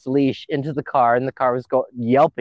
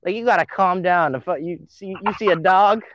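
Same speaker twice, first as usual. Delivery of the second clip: mock bored dispatcher, higher; 4 semitones higher than usual. Retelling a 911 call, mock dispatcher telling him to calm down. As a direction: imitate a dispatcher brushing him off. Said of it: "She's like".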